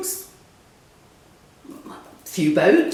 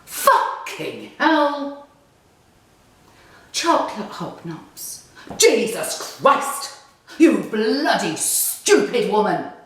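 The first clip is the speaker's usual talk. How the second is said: angry cursing; 2 semitones higher, slower than usual. Acted. Dog owner cursing her.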